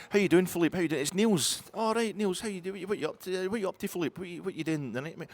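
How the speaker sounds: high mock Belgian voice on the phone; Belgian caller. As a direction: play Philippe high and chirpy. Sketch voicing Belgian Philippe phone call.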